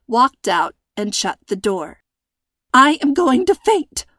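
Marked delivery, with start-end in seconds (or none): 2.7-4.0 higher, louder panicked gasp. A narrator's reading. Tied-up girl gasping to her dad, panicked. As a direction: gasp it out, about to faint. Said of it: "London gasped".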